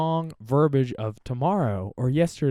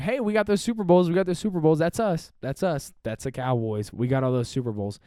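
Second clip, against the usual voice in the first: mocking Cowboys fan; 2 semitones higher, 4 dB louder than usual. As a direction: brag like a smug Cowboys fan. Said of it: "Cowboy fans are like".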